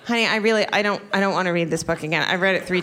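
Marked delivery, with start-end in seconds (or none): none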